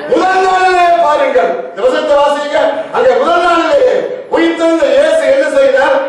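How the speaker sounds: forceful sermon declaration; impassioned preaching. Acted. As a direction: preach it out to the congregation.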